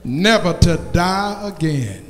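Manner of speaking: measured sermon proclamation with long pauses; preaching. Acted. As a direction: proclaim it to the congregation. Preacher proclaims after the song.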